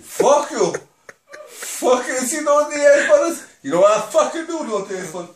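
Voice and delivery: lightly voiced Tony Montana; a hint of a tough gangster; Scarface impression. Asked to do Scarface, talks like a tough gangster. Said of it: "Do Scarface and Tony Montana".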